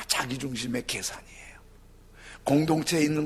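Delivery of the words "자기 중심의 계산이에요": whisper. Real, not acted. 속삭이는 고백.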